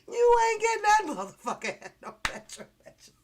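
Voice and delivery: laughing, teasing his friend about the job; laughing taunt. Real, not acted. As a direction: crack up while rubbing it in.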